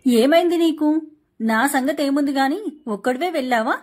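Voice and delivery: a wife shouting in suspicion; angry outburst. Acted. Jealous wife confronts husband.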